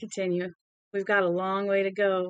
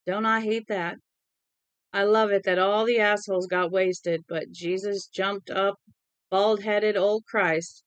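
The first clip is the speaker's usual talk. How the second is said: put-on drunken Southern accent. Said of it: "his southern accent grew more pronounced, putting fur on his words".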